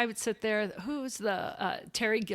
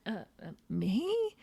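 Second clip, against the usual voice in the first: small, slow, halting reply; mild stunned disbelief; 5 dB quieter, slower than usual. Retold or imitated. Receptionist answering the star, mildly stunned and halting. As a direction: stammer it softly, as if not believing it.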